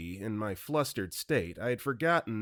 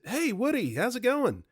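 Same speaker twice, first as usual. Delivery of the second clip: stoned greeting; 13 semitones higher than usual. Retold or imitated. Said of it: "I just said".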